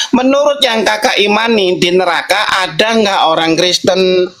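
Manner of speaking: slow, deliberate repeat; slowly. Real, not acted. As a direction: spell the question out slowly. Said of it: "Saya ulangi pelan-pelan". (diulang pelan-pelan)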